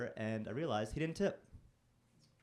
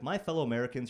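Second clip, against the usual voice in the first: mock presidential opener; 5 dB louder than usual.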